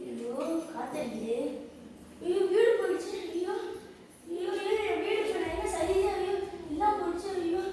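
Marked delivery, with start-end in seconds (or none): 2.2-7.6 high wailing cries of loss; wailing lament. Acted. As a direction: wail over the lost house, pitched up. House blown away by wind.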